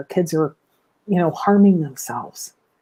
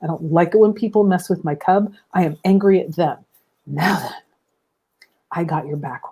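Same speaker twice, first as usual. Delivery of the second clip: calm reassuring parent. Shown as a demonstration. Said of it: "You've gotta keep the most neutral tone".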